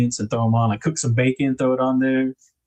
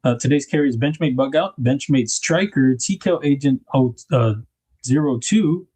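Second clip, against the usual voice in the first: munching chips. Real, not acted. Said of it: "munching on chips and bean dip".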